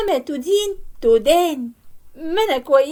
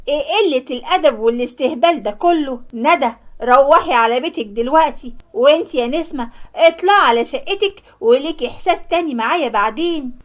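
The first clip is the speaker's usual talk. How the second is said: sharp raised scolding; angry scolding. Acted. Mother angrily scolding her two daughters. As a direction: scold them and send them home.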